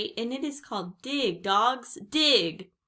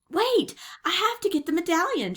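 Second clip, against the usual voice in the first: high, raised, urgent voice; shouting; 11 semitones higher, 6 dB louder than usual. A narrator's reading. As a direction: shout to hold someone back. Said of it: "shouted Jack".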